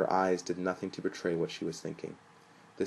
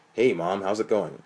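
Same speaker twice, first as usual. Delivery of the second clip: really deep voice; 7 dB louder than usual. A narrator's reading. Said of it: "in a really deep voice".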